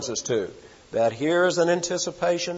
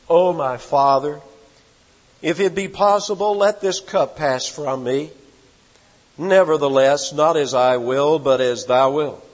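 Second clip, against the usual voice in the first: anguished prayer; 5 dB louder than usual. Acted. Jesus prays in Gethsemane.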